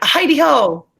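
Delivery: cheery-hail style demo of the line; drawn-out greeting. Shown as a demonstration. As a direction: greet with a lifted, swooping "Heidi ho". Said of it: "That's how he's saying".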